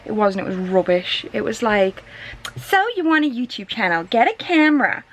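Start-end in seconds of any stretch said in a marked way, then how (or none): 2.6-5.0 lightly put-on accent from a comic-book villainess impression; Harley Quinn accent. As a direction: slip into a light, higher-pitched character accent. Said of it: "Don't know why I did that accent".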